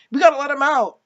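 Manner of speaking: high-pitched mock tearful plea; mock crying. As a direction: imitate a crying woman pleading. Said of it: "Claire's crying".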